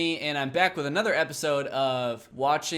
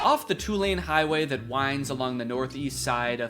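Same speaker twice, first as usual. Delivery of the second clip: investigative exposé. Acted. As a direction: read it like a serious exposé. Reads the Wired article aloud.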